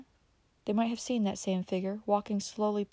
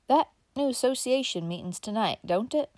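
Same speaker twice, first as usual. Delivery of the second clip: higher, offhand folksy uncle; careless old uncle; 5 semitones higher than usual. Acted. Uncle Bobby casually asking Dick about the meeting, offhand. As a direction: toss it off casually. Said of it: "continued carelessly".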